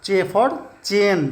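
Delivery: चे said slowly and clearly, then चेन; slow sound demo. Shown as a demonstration. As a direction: model चे for the class at half speed. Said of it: "इसको pronounce करते हैं Pitman में चे".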